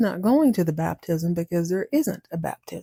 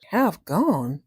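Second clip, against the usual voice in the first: incredulous echo; 2 semitones lower than usual. Acted. Mouse doubting the kitten's odd name, baffled. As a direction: echo it slowly sinking in, unconvinced.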